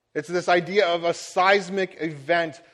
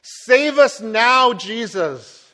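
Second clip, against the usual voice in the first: loud, high pleading cry, slowed on now; crowd yelling; 5 semitones higher, 7 dB louder, much slower than usual. Retold or imitated. The crowd yelling to Jesus to save them, loud plea. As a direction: shout it up as a desperate crowd. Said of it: "where they are yelling".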